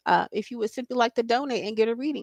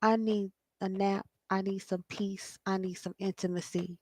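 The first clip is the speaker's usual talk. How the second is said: tired soul's plea; 3 semitones lower, 10 dB quieter than usual. Pretend. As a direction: let it sag, weary and hushed. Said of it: "your spirit and your soul is like".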